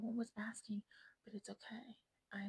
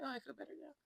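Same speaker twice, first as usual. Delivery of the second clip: relieved sigh voice; 4 semitones higher, 5 dB quieter, faster than usual. Retold or imitated. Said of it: "And then I was like".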